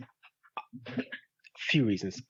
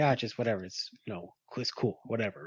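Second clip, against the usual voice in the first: passive aggressive; 4 semitones lower, 6 dB quieter than usual. Retold or imitated. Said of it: "passive aggressive".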